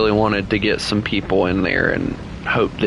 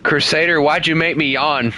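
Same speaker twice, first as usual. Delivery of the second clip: mock accusation; 5 semitones higher than usual. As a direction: call him out in jest. Teasing a chat viewer, louder.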